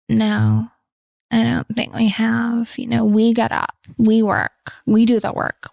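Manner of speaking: hammed-up American celebrity accent; bad American accent. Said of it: "bad American accent just then".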